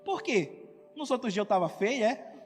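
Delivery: reply as if the praise stung; mock-offended comeback. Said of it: "pode falar assim".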